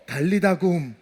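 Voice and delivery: soft, gentle call; hushed and affectionate; loving voice. Acted. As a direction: call a child tenderly, voice dropped. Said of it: "사랑의 목소리로".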